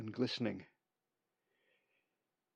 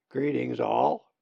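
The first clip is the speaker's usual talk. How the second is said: raspy voice; 5 dB louder, slower than usual. Acted. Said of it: "in a raspy voice".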